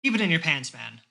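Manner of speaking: put-on weary old man scolding; sigh, then scold. Tim scolds the orc, weary. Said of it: "Tim audibly sighs".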